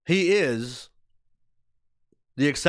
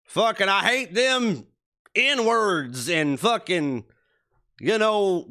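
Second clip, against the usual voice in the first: redneck impression; 4 semitones higher, slower than usual. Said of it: "even an impression".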